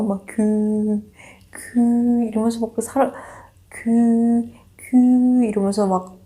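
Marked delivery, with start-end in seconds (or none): 0.3-2.2 drawn-out monotone call, held back in volume; odd name call. Retold or imitated. Barista calling out the customer's name, odd drawn-out call. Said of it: "이상하게 부르는 거예요". 3.7-5.4 drawn-out monotone call, held back in volume; odd name call. Retold or imitated. Barista calling out the customer's name, odd drawn-out call. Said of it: "이상하게 부르는 거예요".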